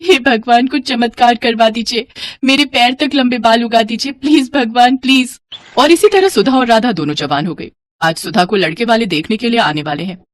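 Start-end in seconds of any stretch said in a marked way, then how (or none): 0.0-5.4 acted pleading with God; tearful prayer. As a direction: beg for a miracle, mildly tearful. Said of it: "रोती थी और भगवान से प्रार्थना करती थी".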